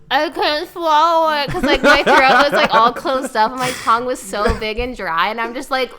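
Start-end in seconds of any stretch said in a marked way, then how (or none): 0.1-3.4 panicky. Retold or imitated. Retold panic while high.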